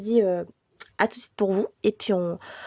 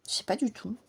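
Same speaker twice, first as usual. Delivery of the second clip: whispered; 4 dB quieter than usual. Real, not acted. Unsure, muttering to herself.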